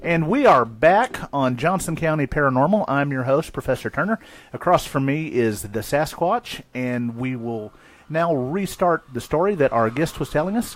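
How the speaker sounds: formal radio host. Pretend. Mock formal radio host restart.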